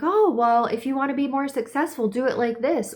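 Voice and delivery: mock know-better suggestion; unsolicited adviser. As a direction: mimic someone pushing helpful advice. Voicing pushy outside voices.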